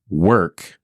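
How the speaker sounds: "work" set apart as if quoted; air quotes. Retold or imitated. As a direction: isolate "work" with pointed quote-mark emphasis. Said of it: "here's the air quotes".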